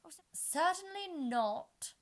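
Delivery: high, loud, slow queen refusing firmly; very decidedly. A narrator's reading. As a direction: refuse with total finality. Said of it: "the Red Queen said very decidedly".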